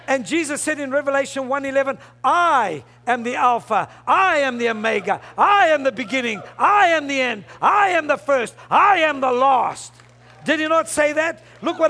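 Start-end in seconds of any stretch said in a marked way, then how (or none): 2.2-9.9 hammered, repeated declarations with a strong opening beat; declaiming scripture. Acted. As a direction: punch each "I" hard, then fall away. Preacher declaiming Jesus's words in Revelation.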